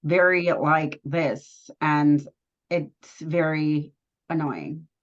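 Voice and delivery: slow, lightly mocked monotone; imitating monotone voice. Cohost mimics Uche's annoying voice, slow monotone. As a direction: draw it out slowly, imitating his monotone. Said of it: "It's his voice".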